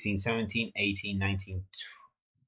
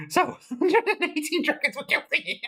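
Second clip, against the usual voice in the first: laughing; 4 semitones higher than usual. Real, not acted. Disbelief at absurd bug result.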